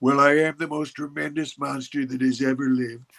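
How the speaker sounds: husky New York drawl. Doing an impression of a president as a monster: husky New York drawl impression. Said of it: "that's so good".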